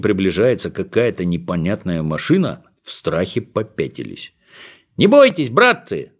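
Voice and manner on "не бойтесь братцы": calling out. Acted. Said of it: "закричал Колосок".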